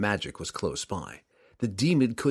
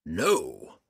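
demon roar; 5 semitones lower than usual. Acted. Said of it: "Ertu roared".

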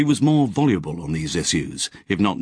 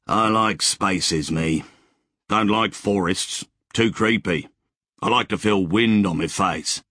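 wistful settler. Acted. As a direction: savour the thought of open spaces. Wally's voice in dialogue.

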